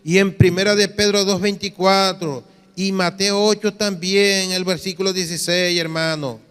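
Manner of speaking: lightly voiced protesting church member; imitated believer's confession. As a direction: recite scripture evenly, then stretch out the complaint. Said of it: "mire esta confesión".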